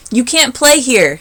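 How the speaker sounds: slow, high, loud yell. A narrator's reading. Sammy yells at Kevin by the sandbox, slow and loud. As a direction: stretch the yell out bossily. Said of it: "Sammy yelled".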